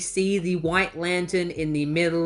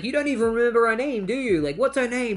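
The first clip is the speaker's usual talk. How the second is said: higher-pitched mock outrage; acted indignation; 6 semitones higher, faster than usual. Character confronting Ronnie before punching him, indignant and high. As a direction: demand answers in a raised, offended pitch.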